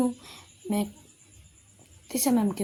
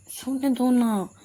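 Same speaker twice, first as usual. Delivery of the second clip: louder sleepy protest; sleepy whine; 4 semitones higher, 6 dB louder, much slower than usual. Acted. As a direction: whine to be left asleep. Sleepy refusal again.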